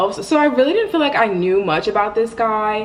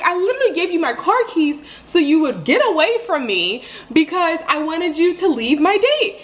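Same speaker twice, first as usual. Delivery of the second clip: higher, laughing through the complaint; exasperated laughing; 8 semitones higher than usual. Retold or imitated. Explaining the car keys to roommates, laughing exasperation. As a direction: laugh at how absurd it is. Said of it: "in the moment I was so mad".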